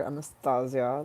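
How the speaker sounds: put-on "Anastasia" in a French accent; French-style "Anastasia" with a z sound. Recalling how the French said it, French accent. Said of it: "like the French said".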